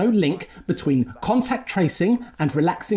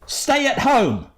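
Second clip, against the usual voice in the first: "Stay at home", drawn out word by word; insistent prompting; 6 semitones higher, much slower than usual. Acted. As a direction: STAY AT HOME, very slow and higher. Adviser repeats the line insistently.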